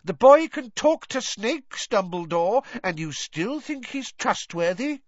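high, exasperated tirade; blustering official losing his temper; angry. A narrator's reading. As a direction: rant with mounting disbelief, pitched high. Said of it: "said Fudge angrily".

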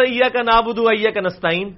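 ایاک نستعین said carelessly, ain lost; mock the common mispronunciation; wrong way; wrong reading. Shown as a demonstration. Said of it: "غلط پڑھ رہے ہیں".

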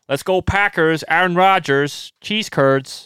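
light Midwest American accent, drawn out; Midwestern American accent. Shown as a demonstration. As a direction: cheer it like a Wisconsin fan. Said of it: "I can go to the Midwestern thing of".

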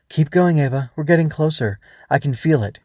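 urging guide. Acted. Swoosh senses shadows nearer, urging Ava on. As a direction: urge her on with some intensity. Growbug urges child onward.

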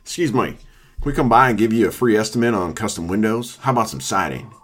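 lightly voiced trashy salesman with a southern twang; a hint of a pushy southern door-to-door pitch. Redoing the window salesman's pitch, in a trashy southern twang. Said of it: "meant to be trashy".

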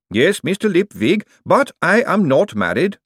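high, loud golem voice in alarm; a huge clay golem, horrified. Acted. Golem Gladys answering.

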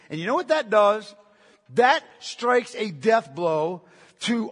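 loud, emphatic pulpit delivery; forceful preaching. Real, not acted. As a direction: hammer each phrase home loudly. Preacher drives home a forceful point.

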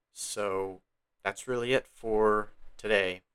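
nervous, unsteady first-timer voice; shaky voice. Real, not acted. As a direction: let the voice waver a little. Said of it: "if my voice sounds shaky".

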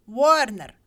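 loud call across the crowd; calling the next name loudly. A narrator's reading. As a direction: shout the name to the square. Calling names at lottery.

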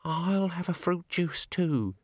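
high, slow nervous quaver. A narrator's reading. Cheery orders juice in the dark bar, quavering. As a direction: quaver it out high, drawing the words out. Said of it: "she quavered".

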